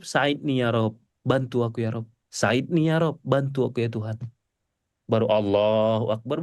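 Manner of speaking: low, hushed closing plea; prayer in prostration. Shown as a demonstration. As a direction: murmur the last plea before rising. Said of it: "selalu saya tutup".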